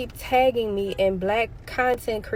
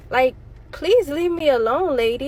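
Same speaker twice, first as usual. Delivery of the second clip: exasperated plea; 5 semitones higher, 3 dB louder than usual. Real, not acted.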